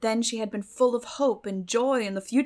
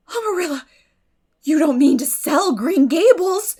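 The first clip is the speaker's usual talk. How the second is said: higher, much louder, slowed pleading cry; dismayed disbelief; 8 semitones higher, 13 dB louder than usual. A narrator's reading. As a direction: cry out against the news. Anne shocked at the sale.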